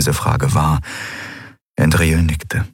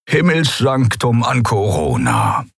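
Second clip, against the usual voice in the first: slow, purring, higher cat-like voice; purring old Skria; 5 semitones higher than usual. A narrator's reading. Old Skria hailing the ship, slow purr. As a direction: purr it out slowly like an old feline. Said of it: "schnurrte er".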